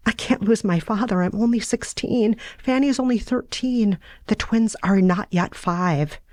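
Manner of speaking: a hint of a frightened daughter; Sarah's voice.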